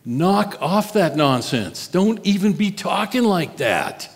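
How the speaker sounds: acting out a mild scolding, pitch climbing at the end; mock rebuke of a close friend. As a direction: tell him off, lightly dramatized. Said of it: "he began to rebuke him".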